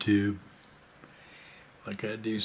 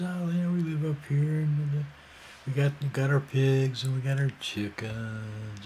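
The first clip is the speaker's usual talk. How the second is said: lightly mimicked hippie, pitched up at first; calm hippie guy; 4 semitones higher, 4 dB louder than usual. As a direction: imitate an easygoing hippie, higher, easing back down. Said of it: "he's got a nice kind of calm voice".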